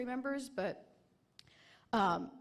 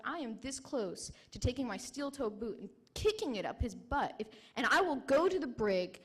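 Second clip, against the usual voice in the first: retold threat, louder, with real heat; angry threat; 3 dB louder than usual. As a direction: warn the corporal through anger. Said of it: "because I'm getting so mad".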